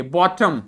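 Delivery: "बॉटम" with full first o and a weak uh; full o, schwa ending. Shown as a demonstration. Teacher showing students the schwa in bottom, "बॉटम" with weak ending. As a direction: slowly give "बॉटम" a reduced second vowel. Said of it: "ये वाले ओ को पूरा बोला".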